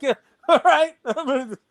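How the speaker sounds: high amused laugh through the words. Real, not acted. To people calling his card fake, laughing it off. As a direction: brush it off with a real laugh.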